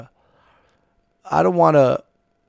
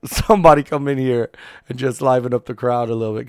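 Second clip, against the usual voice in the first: boring promoter; 5 dB louder than usual. Retold or imitated. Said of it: "some boring promoter".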